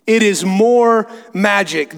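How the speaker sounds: slow, grand declaration; great voice. Acted. Aslan answering the girls, great voice. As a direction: weigh each word majestically. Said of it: "said a great voice".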